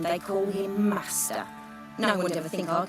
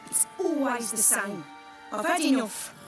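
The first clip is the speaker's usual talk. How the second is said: higher, frustrated complaint; fed up; 4 semitones higher than usual. Acted. Worker left out of the business talk, fed up. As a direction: vent it with pitch raised, exasperated.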